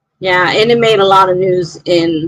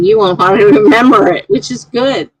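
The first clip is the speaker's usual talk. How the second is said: words broken by a real laugh, louder; laughing through it; 3 semitones higher, 4 dB louder than usual. Real, not acted. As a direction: laugh as you read the comment out. Reading a chat quote, laughing.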